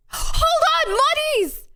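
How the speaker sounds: sudden high gasp of surprise; startled, pitch jumps high; surprised. Real, not acted.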